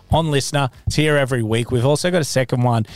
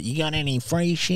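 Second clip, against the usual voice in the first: mock scabby fan; 5 semitones higher, 5 dB quieter than usual. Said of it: "those people that are like".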